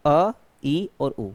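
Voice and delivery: अ, ई, उ as brief separate vowels; short vowels. Shown as a demonstration. Teacher corrects the example list, अ, ई, उ said short. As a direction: keep each vowel in अ, ई और उ short. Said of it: "बहुत कम समय लग रहा है".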